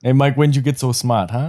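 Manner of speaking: high teasing Boston mobster; Boston gangster. Acted. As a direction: tease like a Boston mob guy.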